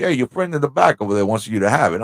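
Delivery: fast, lightly voiced New York waitress; a hint of a New York waitress, quick; New York accent. Waitress telling the couple, a light New York accent. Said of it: "she's got a New York accent".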